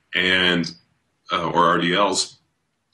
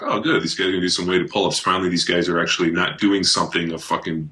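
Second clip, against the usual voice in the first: mock relief. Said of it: "I'm like".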